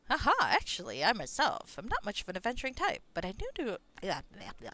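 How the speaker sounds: lightly voiced lively tale-teller; chatty Vagar.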